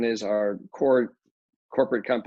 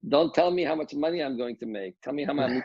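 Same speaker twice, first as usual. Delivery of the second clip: lightly imitated Polish accent, pitched a little higher; 4 semitones higher than usual. Developer quoting his mentor's warning about money, in a Polish accent. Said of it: "his Polish accent".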